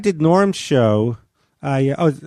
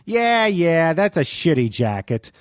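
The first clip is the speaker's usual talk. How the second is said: imitated teasing dismissal; taunting; slower than usual. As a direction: brush him off, then sink into the insult. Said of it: "he would taunt me".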